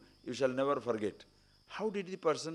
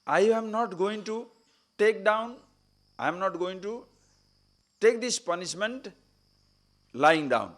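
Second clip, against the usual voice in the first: raised, higher, louder refusal; defiant outburst; 6 semitones higher, 4 dB louder than usual. Retold or imitated. Prisoner defying his captor, raised defiant voice. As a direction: declare it like a man who won't back down.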